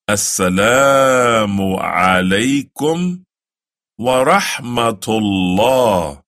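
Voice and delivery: slow, careful Arabic greeting; the closing salaam, slow; slow recitation. Shown as a demonstration. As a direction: recite it slowly for the learner. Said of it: "This is to say".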